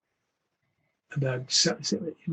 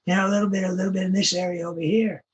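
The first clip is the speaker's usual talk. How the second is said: put-on old guy voice; 4 semitones higher, faster than usual. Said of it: "I read him as an old guy".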